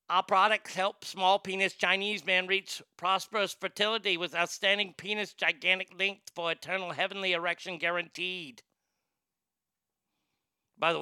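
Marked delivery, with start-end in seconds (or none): 0.1-8.6 mock Chinese accent. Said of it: "reading it with that accent".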